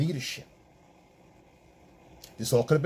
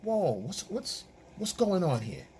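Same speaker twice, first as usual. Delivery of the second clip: dad yelling; 3 semitones higher than usual. Retold or imitated. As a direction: shout over the noisy house like a dad coming home. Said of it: "you hear him yelling".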